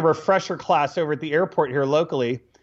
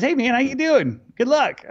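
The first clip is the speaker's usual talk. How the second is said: casual greeting; 9 semitones higher than usual. Retold or imitated. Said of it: "He goes".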